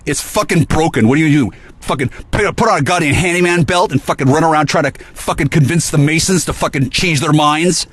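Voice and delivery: high-pitched, heated exasperation; exasperated rant. Real, not acted. Ranting about the broken well.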